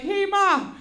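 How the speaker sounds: clumsy son setting up joke. Retold or imitated. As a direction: imitate a boy stumbling into his prank. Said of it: "he was like".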